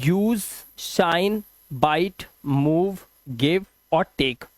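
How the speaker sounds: "give और take" read very slowly. Shown as a demonstration. Teacher reads the word list slowly for the class. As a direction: spell out "give और take" at dictation pace. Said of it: "rule क्या कहता है".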